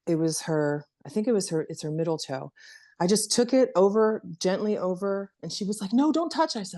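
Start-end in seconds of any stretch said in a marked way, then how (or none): 5.9-6.6 put-on higher, little-girl voice for the scared child; imitating her young daughter. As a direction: play the daughter begging you not to touch her foot. Daughter voiced in a retold story.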